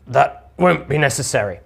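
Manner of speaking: lightly voiced cowed gruff man; gruff and weary. Lorik backs down before the lady, mildly gruff. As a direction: back down with a touch of gruffness. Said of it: "is gruff and weary".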